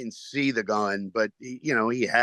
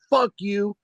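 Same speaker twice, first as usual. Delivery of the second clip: high, punchy mock shout; heckler yell; 9 semitones higher than usual. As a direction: hurl it at the comedian like an angry heckler. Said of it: "he stands up and goes".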